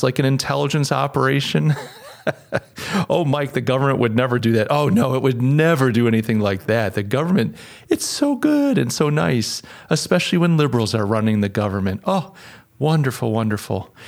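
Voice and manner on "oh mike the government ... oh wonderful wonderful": sarcastic gushing praise; mock naive. Mocking those who trust the government, sarcastically gushing. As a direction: gush with feigned innocence, laying on the sarcasm.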